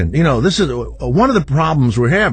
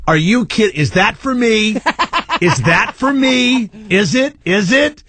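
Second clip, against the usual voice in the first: raised pitch, eager disbelief; hopeful driver calling to a cyclist, higher and eager; 8 semitones higher than usual. Retold or imitated. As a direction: act like she's signalling to you, thrilled. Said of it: "and I'm going".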